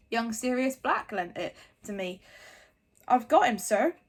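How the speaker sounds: loud gruff giant voice; big booming friendly giant. A narrator's reading. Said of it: "said the giant".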